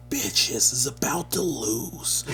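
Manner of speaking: high, slow, laughing taunt; hammed-up retold trash talk; trash talk promo. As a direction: gloat at the other team like a wrestler cutting a promo. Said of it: "You were cutting promos on 'em?".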